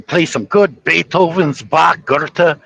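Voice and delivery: roughly imitated European accent; attempted European accent. European local recommending a good show, lightly faked European accent. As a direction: put a slight European accent on the names. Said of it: "I'm trying to do the accent".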